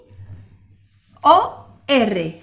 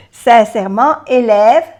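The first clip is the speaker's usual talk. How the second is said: Sincèrement, élève called out louder; louder drill; 5 dB louder than usual. Shown as a demonstration. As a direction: project the words for the class. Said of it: "laughs then repeats words".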